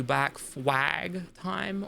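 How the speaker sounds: "black flag time" very slow, with an exaggerated W in "flag"; "flag" drawn out with a heavy W sound; emphasized W. Shown as a demonstration. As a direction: stretch "flag" out as "fwag", leaning on the W. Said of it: "emphasize the W".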